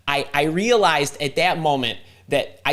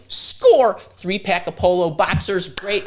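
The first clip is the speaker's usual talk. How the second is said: excited score; 5 semitones higher, 4 dB louder, slower than usual. Retold or imitated. Delighted finding boxers at store.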